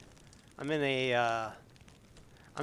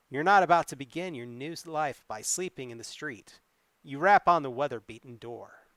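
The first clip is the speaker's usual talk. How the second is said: story narration. A narrator's reading. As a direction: read the adventure like a tale to the audience. Reads gamebook narration aloud.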